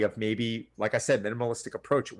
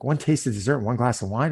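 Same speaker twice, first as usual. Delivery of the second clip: mildly incredulous echo, rising at the end; mock incredulity; 3 dB louder than usual. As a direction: question it as if it's hardly a crime. Coach echoes client's confession in disbelief.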